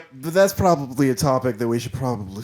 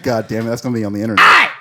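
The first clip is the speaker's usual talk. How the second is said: embarrassed outburst; 3 semitones lower, 6 dB louder, faster than usual. Real, not acted. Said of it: "embarrassed after impression".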